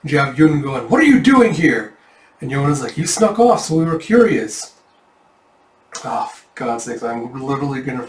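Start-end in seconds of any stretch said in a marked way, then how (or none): 0.9-1.9 much higher and louder, caught off guard; startled outburst. Acted. Yun finding his friends followed him, startled and loud. 3.0-4.7 bright reply. Acted. Yona answering brightly.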